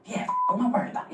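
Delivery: very high, fast, cocky; man suddenly over-confident after pep talk, high and fast; squeaky bravado. Retold or imitated. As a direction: burst out in giddy false confidence.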